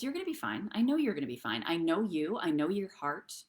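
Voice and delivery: reassuring. Retold or imitated.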